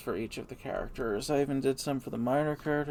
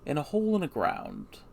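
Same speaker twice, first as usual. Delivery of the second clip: Gandalf voice; 3 semitones higher than usual. Shown as a demonstration. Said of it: "let me just try to do a little Gandalf voice".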